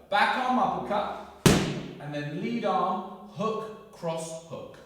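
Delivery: loud, punchy combo calls; boxing coach calling combos. Shown as a demonstration. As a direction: shout each punch on the hit. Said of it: "calling the combo during drill".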